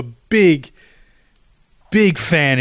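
"big, big fan" slow, a long pause between the two bigs; extra emphasis on BIG. Retold or imitated. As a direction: draw out each "big" for emphasis. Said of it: "I put extra emphasis on that".

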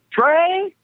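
high calling voice from another room; granddad calling. Retold or imitated. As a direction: call the name up high, a room away.

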